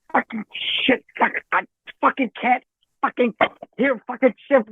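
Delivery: A singer screaming, imitated. The singer can't hear in his headphones, mock screaming. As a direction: lightly imitate a frustrated singer's sputtered cursing. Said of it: "I'm screaming".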